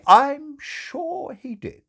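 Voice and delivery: very high, slow, firm and dry. Acted. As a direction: cut her off firmly.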